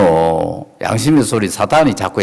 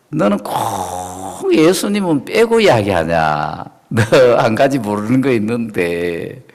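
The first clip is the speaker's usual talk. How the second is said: defiant rebuke. Shown as a demonstration. Believer answering the devil, defiant and sure. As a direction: stand up to the devil, unbowed. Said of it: "예수님 피로 얼굴 덮으세요".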